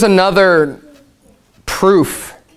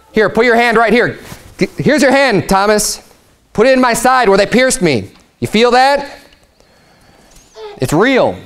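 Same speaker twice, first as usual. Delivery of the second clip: lightly voiced Jesus, raised and eager; a hint of Jesus inviting Thomas, pitched up; Jesus speaking; 5 semitones higher than usual. Preacher voicing Jesus to doubting Thomas, gently raised.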